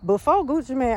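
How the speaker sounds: slightly winded while walking; out of breath. Real, not acted. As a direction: talk a bit short of breath. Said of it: "I'm a little out of breath".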